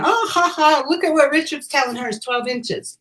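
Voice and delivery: mock laugh, "ha, ha", then the taunt; mock jeering. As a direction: imitate men jeering, starting high. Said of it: "men laughing and jeering at me".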